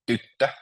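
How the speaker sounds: tyttö with the stress on TYT; first-syllable stress. Shown as a demonstration. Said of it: "you stress the first syllable".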